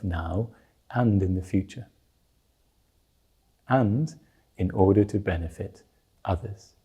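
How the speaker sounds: calm, measured meditation guidance with long pauses; guided meditation. Real, not acted. Teacher settling listeners before they meditate on the root mind, guided meditation. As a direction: ease listeners into stillness, leaving space between phrases.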